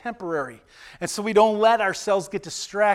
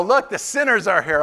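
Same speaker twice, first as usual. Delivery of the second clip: mock public call-out, slightly raised; mock announcement. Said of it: "if you were to stand up and go".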